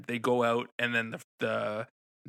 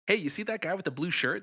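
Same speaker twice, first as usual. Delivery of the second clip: calling out; 8 semitones higher than usual. Retold or imitated. Calling to staff across theater.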